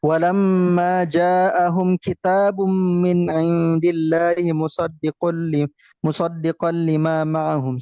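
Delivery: slow, measured Arabic recitation; slow Quran recitation. Shown as a demonstration. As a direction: recite each word slowly and clearly.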